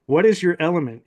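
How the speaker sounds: mild imitation of a booming demand; lightly put-on commanding voice, falling at the end; mock yell. Mysterious voice demands the narrator's element, mildly mock-yelled. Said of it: "It yells out next".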